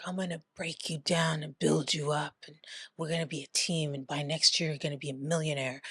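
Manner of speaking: mock creepy close-up murmur; creepy ear murmur. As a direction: quietly, close in his ear, a little sleazy. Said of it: "be right in his ear in the back".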